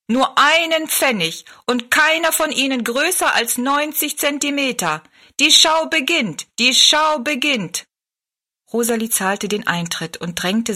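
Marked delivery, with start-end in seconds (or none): 0.1-7.8 high-pitched fairground barker; showman calling out. A narrator's reading. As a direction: cry out the show to the crowd. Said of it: "rief er Rosalie zu". (hoher Marktschreier-Ruf)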